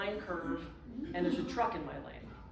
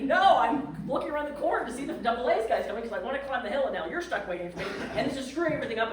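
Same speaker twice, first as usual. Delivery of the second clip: loud, high, fast exasperated complaint; exasperated rant; 4 semitones higher, 6 dB louder, faster than usual. Retold or imitated. Stranded traveller ranting at the landlady about her ruined plans. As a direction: vent it all at once.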